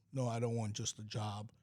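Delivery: usual speaking voice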